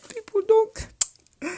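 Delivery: choked up mid-sentence, cracking; real emotion cracking the voice. Real, not acted. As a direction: voice breaks up high on the words. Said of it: "I'm emotional".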